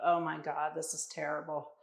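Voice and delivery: strained under heavy load; straining. Real, not acted. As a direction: push through burning arms. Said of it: "my arms are dying".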